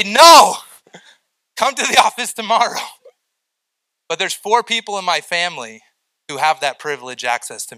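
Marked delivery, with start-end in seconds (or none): 0.0-2.8 sudden loud no, then a laugh; playful shout of refusal; mock shout. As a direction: bark it out, half joking. Retold refusal of late caller.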